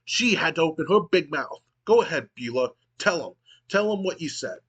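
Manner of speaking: high, excited lackey voice; frantic and high, over-eager. Acted. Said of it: "in a high-pitched, frantic voice".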